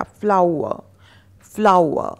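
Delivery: फ्लावर as "flau-a", no final r; sounds run together. Shown as a demonstration. Teacher showing the right pronunciation, फ्लावर in one go. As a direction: blend फ्लावर quickly into "flau-a". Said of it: "जल्दी से बोलेंगे तो ये सही".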